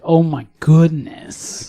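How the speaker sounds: breathy whisper of awe, slowed right down; awed whisper. Real, not acted. Podcaster whispering in awe over Roy Batty. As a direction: hush it like the scene still gets you.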